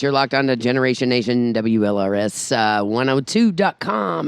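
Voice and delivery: upbeat station-break announcer voice; radio DJ read. Acted. The host back-announcing to listeners, in an upbeat DJ voice. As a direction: sell the station ID over the music.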